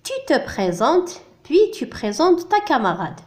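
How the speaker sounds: slow, clear reading of the instruction; deliberate teacher read-aloud. Shown as a demonstration. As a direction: read it out slowly for beginners. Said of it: "التمرين الموالي".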